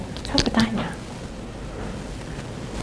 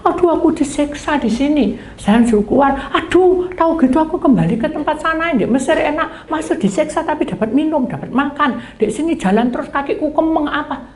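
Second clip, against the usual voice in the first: higher whining complaint; grumbling Israelites; 6 semitones higher than usual. Acted. Israelites grumble to Moses in the desert, whining higher. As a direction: moan about the journey.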